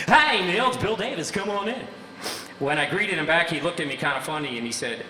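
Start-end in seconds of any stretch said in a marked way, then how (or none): 0.1-1.9 high, loud announcer greeting; big DJ voice. Retold or imitated. Short DJ greeting visitor at the door in big radio voice. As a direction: welcome him like a radio host. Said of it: "unbelievable voice like he was six-foot-nine".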